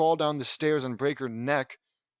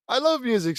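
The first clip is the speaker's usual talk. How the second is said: put-on little-girl voice; 8 semitones higher, 5 dB louder than usual. Lily's line in a child voice.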